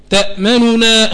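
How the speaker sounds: ما لك لا تأمننا very slow with the nun's vowel only hinted; rawm recitation. Shown as a demonstration. Teacher recites the verse to demonstrate rawm, very slow. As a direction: recite تأمننا barely touching the damma on the nun. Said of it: "اختلست الحركة متاع النون".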